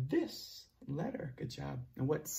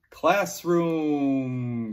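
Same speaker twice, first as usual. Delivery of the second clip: Classroom called out loud and drawn out; loud model word; 6 dB louder than usual. Shown as a demonstration. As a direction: project Classroom for the class to repeat. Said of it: "Good job".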